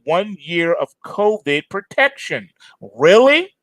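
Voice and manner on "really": sarcastic really. Real, not acted. Sarcastic aside to listeners.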